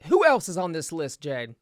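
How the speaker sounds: put-on Southern accent, playful. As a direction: slip into a light Southern twang. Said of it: "slip into a Southern accent".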